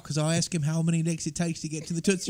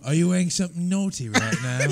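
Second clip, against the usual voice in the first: British serial killer. Pretend. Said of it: "sound like a serial killer from across the pond".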